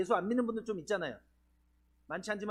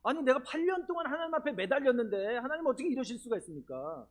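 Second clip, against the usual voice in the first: acted-out reproach to God, pitched higher; resentful protest; 4 semitones higher than usual. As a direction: plead with mock indignation, voice lifted. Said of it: "하나님에 대해 원망이 드는". (원망하며 따지는 말투 흉내)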